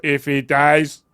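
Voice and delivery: slow Russian villain voice; drawn-out, badly faked Russian accent; attempted Drago. Shown as a demonstration. Retrying the Drago quote, slow Russian accent. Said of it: "not mocking the Russian man".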